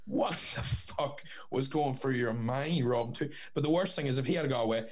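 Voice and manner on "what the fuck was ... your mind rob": retold incredulity. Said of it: "And I was like".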